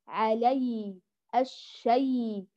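"علي" and "الشي" ending in a long gliding ay; stretched, unpressed ay in "علي" and "الشي"; soft flowing yaa. Shown as a demonstration. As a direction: let the yaa of "علي" and "الشي" flow on slowly. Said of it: "هكذا يقرأ الياء اللين الفصيح".

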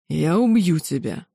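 a lightly voiced king growling the threat; understated snarl; growled threat. A narrator's reading. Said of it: "прорычал король Гариндара".

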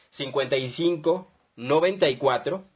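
measured dictation, pausing between number groups; dictado pausado. Real, not acted. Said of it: "Lo voy a repetir". (número dictado con calma, grupo por grupo)

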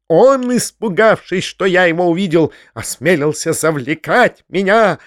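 shrill, self-righteous rant; squealing. Acted. Foma accusing the uncle of a false letter, shrill. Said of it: "визжал Фома".

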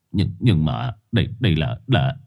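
halting, stammering words. Acted. Phóng stammers at the dog, lost for words. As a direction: stumble over every word. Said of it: "Ông lắp bắp".

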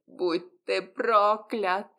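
a beaten werewolf groans his curse; groaning curse. A narrator's reading. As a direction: curse him through the pain, slowly. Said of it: "простонал Лиам".

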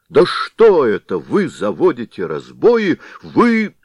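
high, loud, furious yell; furious shout. Acted. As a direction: explode at them in rage. Head explodes at villagers. (Голова в ярости орёт на мужиков)

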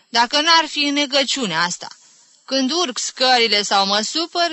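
high, loud, put-upon complaint; plaintive confiding. Acted. Aunt confiding her breathlessness to the others, plaintive.

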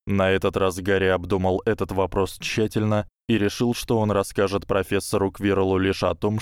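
ordinary delivery

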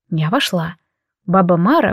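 plain reading voice

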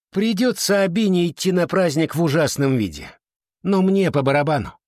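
scornful dismissal. A narrator's reading. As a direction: brush her off, lightly haughty. Clare scornfully dismisses Abina. (высокомерно, повышенным тоном)

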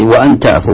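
وأن تعفوا with an open "a" on the hamza of وأن; fatha on the alif. Shown as a demonstration. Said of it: "بفتح ال-، ال-، ال-، الألف". (انطق وأن تعفوا بفتح همزة وأن)

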